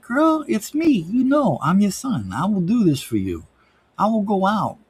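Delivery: high-pitched, over-earnest pledge to mom; put-on devoted-son voice. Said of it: "Why I'm talking like this".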